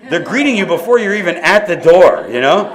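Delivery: laughing while telling; words through laughter. Real, not acted. Laughing about greeters.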